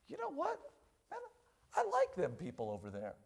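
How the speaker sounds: groggy king. Acted. Sleepy king voiced.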